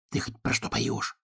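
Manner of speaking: hushed whisper. A narrator's reading. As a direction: whisper so as not to break the song. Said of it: "шёпотом спросил Заяц у ёжика".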